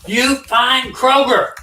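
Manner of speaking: high, slow, put-on foreign caller; imitating the pushy scammer on the phone. Mimicking the scam caller ordering her to find Kroger, high and slow.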